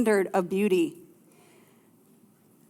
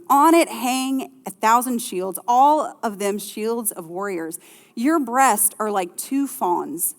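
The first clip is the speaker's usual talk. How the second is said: scripture reading. Acted.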